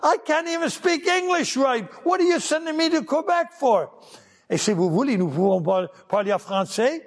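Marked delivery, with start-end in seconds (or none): 0.0-3.9 high, incredulous protest; protesting to God. Retold or imitated. Ron objecting to God about going to Quebec, high and incredulous. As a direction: pitch it up in disbelief. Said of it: "And I said".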